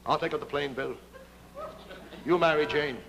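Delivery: lightly voiced hero, earnest and low; heroic pilot voice. Smiling Jim to Bill, lightly voiced noble hero. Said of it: "Smiling Jim speaks first".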